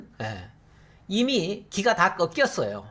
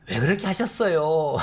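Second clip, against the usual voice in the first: meek question. Shown as a demonstration. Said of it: "이런, 이런, 이런 투입니까?".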